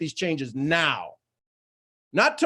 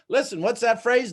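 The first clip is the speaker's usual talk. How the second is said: usual speaking voice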